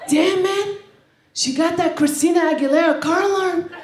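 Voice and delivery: put-on Black American guy's accent. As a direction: imitate an impressed Black American guy. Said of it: "That's the only accent I know".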